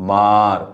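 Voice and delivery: मार with the a in मा drawn long and the final र clipped short; cut-off r. Shown as a demonstration. Teacher to pupils, showing मार with a long मा and clipped र. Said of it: "र अपूर्ण उच्चारायचं आहे".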